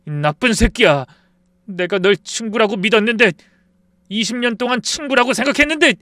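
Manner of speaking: loud, high, hurt and enraged; yelling at his friend while grabbing his collar; betrayed fury. Acted. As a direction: roar at the betrayal.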